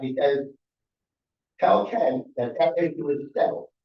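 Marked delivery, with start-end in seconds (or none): none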